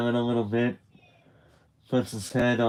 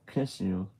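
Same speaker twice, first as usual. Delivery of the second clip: softer, shy whisper of the last words; 2 semitones lower, 7 dB quieter than usual. Retold or imitated. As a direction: let the last words drop to a hush. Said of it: "he whispers".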